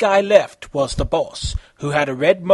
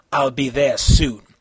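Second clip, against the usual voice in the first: calm; 3 semitones lower than usual. Acted. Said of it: "said calmly".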